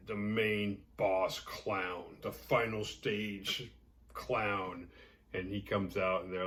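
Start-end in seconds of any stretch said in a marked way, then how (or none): 0.1-4.9 ominous announcer. Shown as a demonstration. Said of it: "we meet the huge".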